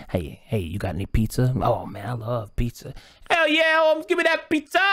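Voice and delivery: shrill, loud hell yeah for pizza; a leech hungry for pizza; greedy leech. Acted. Leech voices crave pizza.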